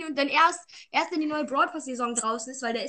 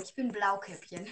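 laughing; 7 semitones higher, 10 dB louder than usual. Real, not acted. Joking he is Blue Cap.

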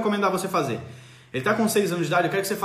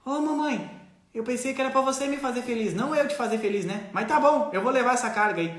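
lightly voiced hurt child; small child's voice; 3 semitones higher than usual. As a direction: play the little kid meekly accepting the burden. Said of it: "a criança olha pra você e assim".

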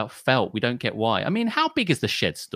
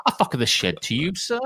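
laughing mock formality.

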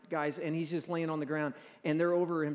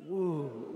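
demonstrated wince woo; 3 semitones lower than usual. Shown as a demonstration. Pastor leads the congregation, wince woo. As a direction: show the crowd the wince woo. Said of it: "Go like this".

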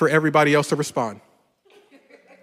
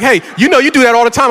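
imitating wife; 6 semitones higher, 5 dB louder, faster than usual. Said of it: "So when she's like".

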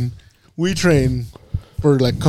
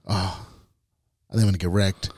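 muttering it much softer and lower; quiet; 10 semitones lower, 7 dB quieter than usual. Retold or imitated. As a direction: mumble it to yourself, defeated. Voicing a doubtful regular guy.

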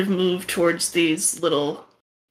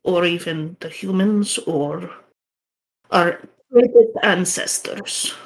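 put-on Russian accent. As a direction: tell the legend gravely, Russian accent. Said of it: "the shaman's gonna sound a lot like the guy you just talked to".

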